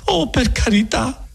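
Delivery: high, slow exasperated politeness; grateful impatience. Acted. Agnese cutting off the friar's offers, grateful but impatient. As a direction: thank him while losing patience. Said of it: "misto di gratitudine e di impazienza".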